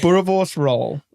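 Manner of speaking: "Boerewors roll" in a light South African accent; South African "Boerewors roll", said lightly; very light pronunciation. Shown as a demonstration. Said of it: "I'm saying it like very, very lightly".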